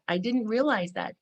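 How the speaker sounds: usual speaking voice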